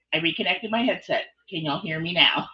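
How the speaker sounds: faint, far-off headset sound; distant mic. Real, not acted. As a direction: sounds distant, across the room. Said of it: "you sound a little distant".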